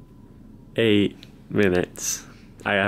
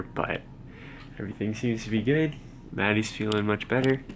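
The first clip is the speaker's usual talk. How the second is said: tired and quiet; 5 dB quieter than usual. Real, not acted. Tired morning update after bad night.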